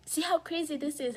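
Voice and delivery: rising disbelief at how she was treated; indignant outburst. Real, not acted.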